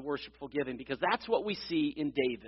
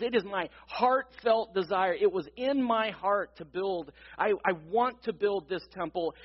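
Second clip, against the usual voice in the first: voicing David's eager longing, pitched a little higher; an understated, heartfelt eagerness, higher in pitch; eager anticipation; 3 semitones higher than usual. Preacher quoting David on his wish to build the temple, eager. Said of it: "he's so eager".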